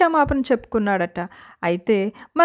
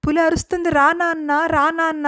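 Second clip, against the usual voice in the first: scared call for help; 3 semitones higher than usual. Acted. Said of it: "అరుస్తున్నాడట".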